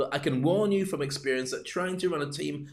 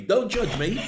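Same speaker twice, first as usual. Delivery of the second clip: mock protest; 6 semitones higher, 3 dB louder, slower than usual. Mock protest at watching viewers.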